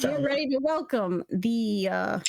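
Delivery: measured, drawn-out introduction; game master's unhurried announcer delivery. Acted. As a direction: present the next contestant like an announcer.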